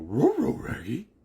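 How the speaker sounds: high, loud cartoon dog voice; cartoon dog call. Parent prompting the kid's Shaggy, high loud dog voice. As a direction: yelp it out like a talking cartoon dog.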